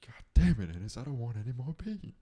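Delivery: hammed-up furious shout at a partner; mock angry yell. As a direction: blow up at Ennis over the beans. Acting Brokeback quote, yelling at Ennis.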